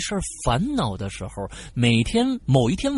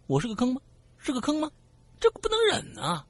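indignant; 8 semitones higher, faster than usual. Acted. Indignant at being called a pit.

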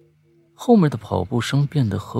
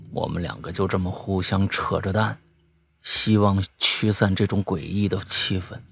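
ordinary delivery

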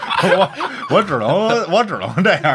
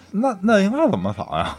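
laughing retold question; 9 semitones higher than usual. Retelling his reply to grandma.

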